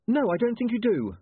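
sharp, loud snap; snapped. A narrator's reading. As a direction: snap it back at him. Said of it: "she snapped".

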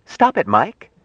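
high-pitched urgent order; urgent command. Acted. Jill tells Mike to stop laughing, urgent command. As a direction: cry out to make him stop.

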